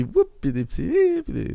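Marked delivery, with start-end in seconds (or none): 0.0-0.3 imitated small happy whoop; little whoop. Podcaster imitates young Anakin when happy, little whoop. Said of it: "il fait tout le temps des petits". 0.9-1.2 high-pitched imitation of a delighted squeak; little happy squeal. Podcaster imitates young Anakin when happy, little high squeal. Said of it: "c'est quand il est content".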